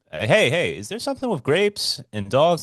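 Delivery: high loud call to another room. Retold or imitated. Calling to Wu Yin in another room, high and loud. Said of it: "I call him out".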